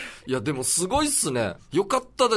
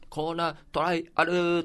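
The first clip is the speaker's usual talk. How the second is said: announcer-style corner title; title call voice; 6 semitones higher, 4 dB louder than usual. Shown as a demonstration. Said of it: "タイトルコールみたいな".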